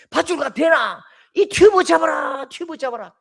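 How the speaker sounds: put-on loud call to a drowning boy; urgent shout from the riverbank; shouted instruction. Second adult shouts about the tube.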